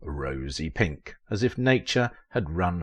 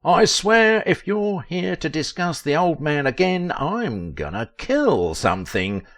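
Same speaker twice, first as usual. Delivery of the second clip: talking with a mouthful of meat; words round a big bite of food; mouth full; 10 semitones higher, 6 dB louder than usual. Acted. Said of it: "said through a mouthful of meat".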